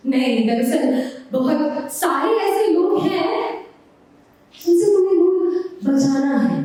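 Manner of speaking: poem recitation. Acted. Poet advising an unborn daughter Noor, measured recitation.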